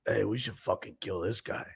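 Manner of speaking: low-volume conspiratorial aside; imitating a quiet threat; hushed plotting. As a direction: say it softly to the friend beside you. Passenger plots quietly behind the driver.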